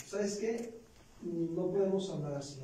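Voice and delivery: pointed, rising question before a calm line; sharp question. Retold or imitated. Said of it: "con una actitud muy sabia". (qué agudo y subido, luego tono normal)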